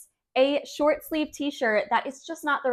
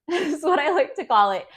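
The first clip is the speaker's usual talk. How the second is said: laughing; 4 semitones higher, 4 dB louder than usual. Real, not acted. Amused by own coined term.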